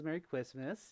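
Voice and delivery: Christmas said "Kwismas", R turned to W; slipped pronunciation. Real, not acted. Streamer reading a chat greeting, slipped pronunciation. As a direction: soften the R in Christmas into a W. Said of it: "Why am I talking like that?".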